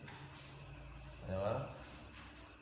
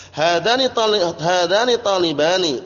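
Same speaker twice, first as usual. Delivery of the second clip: higher and louder hadani talibani; loud recitation; 4 semitones higher, 4 dB louder than usual. Shown as a demonstration. Teacher calling out hadani talibani to students, loud and high. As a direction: call the example out to the class. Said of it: "teacher calls out examples".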